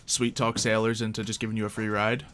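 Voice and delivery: ordinary talk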